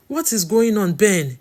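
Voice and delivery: high, loud, stammering plea; desperate demand, voice climbing high; distressed cry. A narrator's reading. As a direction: cry out in rising panic, tripping over words. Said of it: "she cried".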